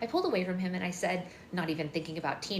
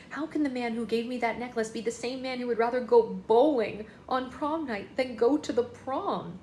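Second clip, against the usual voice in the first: indignant outrage; 4 semitones higher, 4 dB louder than usual. Acted. Mia indignant over bowling plan.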